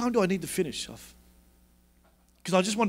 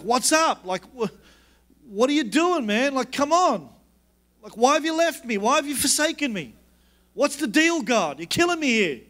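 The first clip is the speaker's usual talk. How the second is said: higher-pitched, exasperated mock plea; modern-day complaint to God; 5 semitones higher than usual. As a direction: act out an informal gripe at God. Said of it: "giving you my modern day version".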